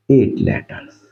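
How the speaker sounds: hushed confirming repeat; whispered repeat. Shown as a demonstration. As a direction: whisper eight letters back to yourself. Teacher repeats count for class.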